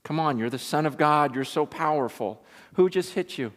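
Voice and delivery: lightly acted jeer at a victim; mocking taunt. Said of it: "and mock him and go".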